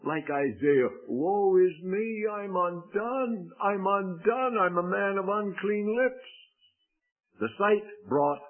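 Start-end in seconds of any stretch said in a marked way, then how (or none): 1.1-6.3 lament. Retold or imitated. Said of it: "we cry with, like Isaiah".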